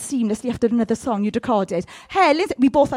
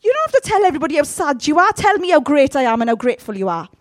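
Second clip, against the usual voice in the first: voicing God; 2 semitones higher, 4 dB louder, faster than usual. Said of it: "That's what he's saying".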